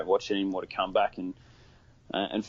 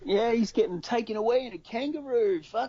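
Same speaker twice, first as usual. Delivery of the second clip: mock announcement; 12 semitones higher than usual. Joking image of arrest.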